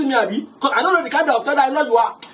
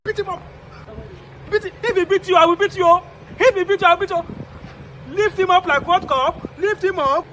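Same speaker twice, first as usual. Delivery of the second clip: higher, urgent cheering; excited higher goading; egging on; 4 semitones higher than usual. Acted. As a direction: hype up the fighter. Egging on a fight.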